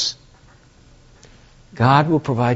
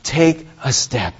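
patient coaxing; 3 dB quieter, slower than usual. Acted. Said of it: "He just says".

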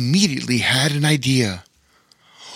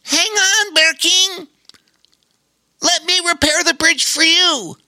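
much higher, louder call across the bridge; barked call; 4 dB louder than usual. Acted. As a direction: shout out to reassure the falling bear. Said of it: "Darwin barked".

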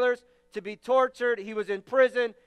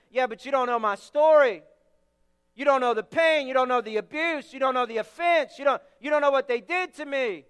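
aggrieved protest. Retold or imitated. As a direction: throw it back like someone who was really hurt. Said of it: "here's what I hear all the time".

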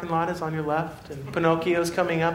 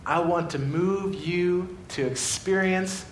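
tender God; 4 semitones lower, 4 dB quieter than usual. Acted. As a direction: lower and gentle, drawing them in. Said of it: "God this morning is saying".

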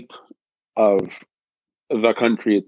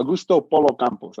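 Spanish-accented name, slightly higher in pitch; 5 semitones higher than usual. Real, not acted. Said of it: "gotta go with my Spanish accent here".

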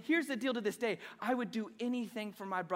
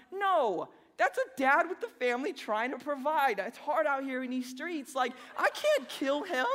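mock-earnest defence of the spider dad, pitched higher; mock pleading; 3 semitones higher than usual. Husband defending a spider family to his wife: mock earnest plea. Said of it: "I'm like".

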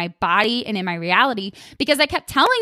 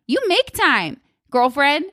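sassy; 5 semitones higher, slower than usual. Pretend. Sassy self call-out.

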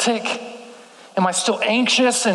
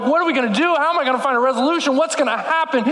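mild mock panic; 5 semitones higher, much faster than usual. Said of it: "our minds are screaming".

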